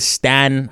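Stan with the short a of "man"; misread pronunciation. Shown as a demonstration. Showing listeners a misreading, Stan said to rhyme with man. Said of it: "You might read it as".

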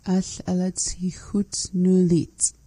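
whispering "Al alatsi hutnulit" with a falling end; whispered practice. Real, not acted. Learner whispering the phrase while practising. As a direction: mouth the phrase unvoiced. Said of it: "learner practising".

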